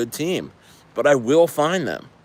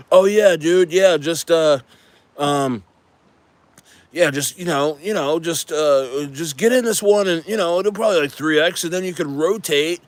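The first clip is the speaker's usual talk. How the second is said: mock dev sales pitch; 3 semitones higher than usual.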